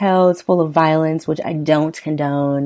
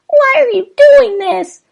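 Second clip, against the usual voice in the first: much higher, pleading wife voice, slow; voiced frightened wife; 10 dB louder, slower than usual. Host reading lyrics gives the wife a high, frightened plea. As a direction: pitch way up as the scared wife.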